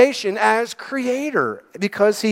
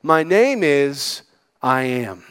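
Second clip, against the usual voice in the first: voice of God; 6 semitones lower, slower than usual. Retold or imitated. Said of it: "And God says".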